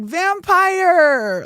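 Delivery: high loud yell of vampire; shouted vampire. Retold or imitated. Shouting across the bar at a new friend, loud. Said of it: "I was like".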